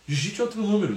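a robotic automated prompt. Retold or imitated. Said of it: "eu sou um robô". (voz de robô)

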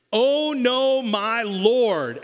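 high, loud cry of panic; panicked cry. Acted. Servant crying out in alarm at the army, high and loud. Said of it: "exclamation mark".

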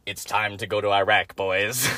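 a low, understated political impression; George Bush. Quoting George Bush as a joke, lightly impersonated. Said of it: "I'm just quoting George Bush".

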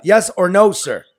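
loud, pressing demand for an answer; cross examination. Real, not acted. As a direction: push him hard for a straight answer.

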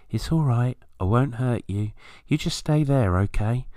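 gentle coaxing to a nervous bird; reassuring a wood pigeon. Retold or imitated. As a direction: soothe it so it won't fly off. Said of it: "talk reassuringly to wood pigeons".

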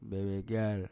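put-on Jamaican accent. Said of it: "The Jamaican accent".

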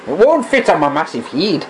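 muffled through a face mask; speaking behind a costume face mask. Real, not acted. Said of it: "I am talking through a mask here".

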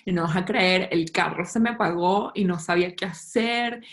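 mimicking a posh Caracas girl, chewy jaw; lightly voiced posh Caracas girl calling her dad; cuica Caracas accent. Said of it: "Así habla Carolina Herrera".

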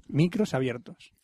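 low, slow official notice; slow, low-voiced studio warning; mock announcer. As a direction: draw it out deep and deliberate. Repeats the mock announcement slower.

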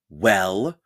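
a sharp, loud whispered Well?; demanding whisper. Acted. Monster teacher demands Percy confess, harsh whisper. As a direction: press him for an answer in a harsh whisper. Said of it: "she demanded".

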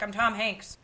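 soft, casual name drop; understated self-introduction. Retold or imitated. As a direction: say your name offhandedly. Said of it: "You know, like".

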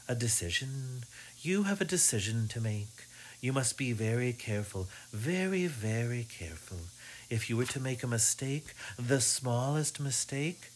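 sing-song droning fortune teller. Acted. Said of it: "her sing-song, droning voice".

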